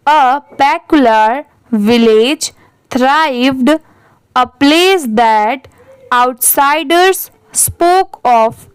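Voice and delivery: बहुत धीरे, शब्द-शब्द रुककर कहानी पढ़ना; सीखने वालों के लिए धीरे-धीरे अंग्रेज़ी पैराग्राफ पढ़ें; धीमा पाठ. Shown as a demonstration. Teacher reads story paragraph aloud. (टीचर छात्रों के लिए पैराग्राफ बहुत धीरे पढ़ती है)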